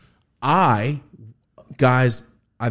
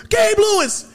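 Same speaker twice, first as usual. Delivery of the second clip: high, loud laughing shriek of the name; laughing scream; 5 dB louder, slower than usual. Retold or imitated. Retelling screaming the actor's name, laughing scream. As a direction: scream it through a laugh like a starstruck fan. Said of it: "one twelve Peaches scream".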